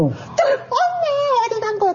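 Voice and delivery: very high-pitched imitation of a child; high wailing kid voice; children's searching call. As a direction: call plaintively for a missing mom, as a child. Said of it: "다시 아이들 목소리가 들리는 거예요".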